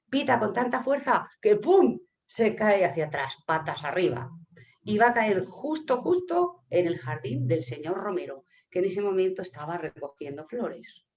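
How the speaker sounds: lively story narration, lightly animated; children's storytelling. Acted. Teller recounts the puchero tale to listeners, animated storytelling. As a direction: tell it to children, stressing each event.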